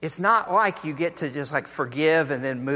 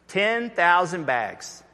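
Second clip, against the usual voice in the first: slow, weighty repeat; slow emphasis; 2 semitones higher, slower than usual. Shown as a demonstration. Preacher repeating the sum to the congregation, slow. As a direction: drag it out for weight. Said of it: "That's supposed to sound like Fort Knox".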